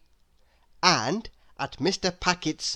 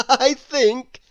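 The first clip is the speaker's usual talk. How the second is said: higher, louder amused voice; laughing; 7 semitones higher, 7 dB louder than usual. Acted. Mister Happy laughing at fallen Mister Grumpy. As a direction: chuckle as you begin. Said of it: "he laughed".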